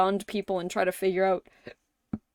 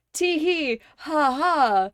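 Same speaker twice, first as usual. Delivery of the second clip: mock giggle; 5 semitones higher, slower than usual. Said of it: "clearly, it's like".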